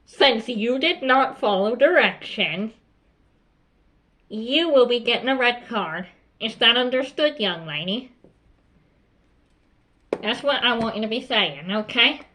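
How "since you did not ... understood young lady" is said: deliberate, stern reprimand to a pupil; measured, no-nonsense warning; firm teacher demo. Shown as a demonstration. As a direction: spell out the consequence firmly. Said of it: "I'll show you, for example".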